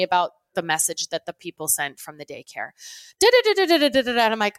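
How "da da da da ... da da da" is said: rapid run of da-da-das starting high, falling away; mimicked chatter. Wife mimics husband relaying a daycare message, mock chatter. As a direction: imitate someone rattling on in meaningless syllables.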